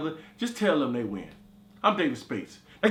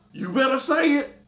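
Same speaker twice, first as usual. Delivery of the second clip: menacing demand; 7 semitones higher, 4 dB louder than usual. Retold or imitated. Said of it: "Kimberly was like".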